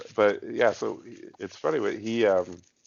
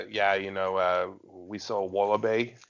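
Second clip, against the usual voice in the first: laid-back mock Australian accent; casual put-on Australian. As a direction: play an Australian traveller. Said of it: "That's pretty good, Craig".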